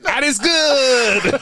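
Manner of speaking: drawn-out giggly praise; laughing. Real, not acted. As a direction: stretch it out through a laugh.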